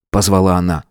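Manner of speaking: ordinary delivery, nothing marked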